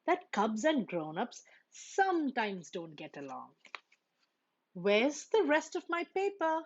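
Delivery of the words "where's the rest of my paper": loud, high furious bellow; angry thunder. A narrator's reading. Papa Bear thundering about his missing paper, angry. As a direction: roar it at the whole house. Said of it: "thundered an angry Papa Bear".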